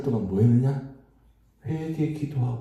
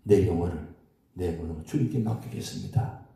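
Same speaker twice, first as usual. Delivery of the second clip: soft surrendering prayer; 6 semitones lower, 4 dB quieter than usual. Retold or imitated. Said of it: "그렇게 기도했지".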